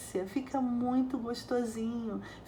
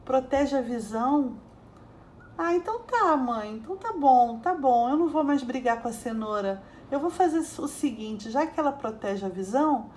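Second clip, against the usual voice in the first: louder, cheeky, mock-outraged boy; sarcastic retort; 2 semitones higher, 3 dB louder than usual. Boy sassing his mom about carrots, loud and sarcastic. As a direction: talk back to mom with loud sass. Boy mocking mom's vitamin argument.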